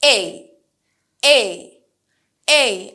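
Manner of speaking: spaced out, loud model words for repeating; drill pronunciation. Shown as a demonstration. Teacher drills words for students to repeat aloud. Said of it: "আমি যতবার বলবো, আমার সাথে সাথে কিন্তু বলবেন".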